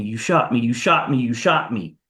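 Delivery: mock shout that grows closer each time; retold rising shout. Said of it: "Then you hear it getting louder and louder".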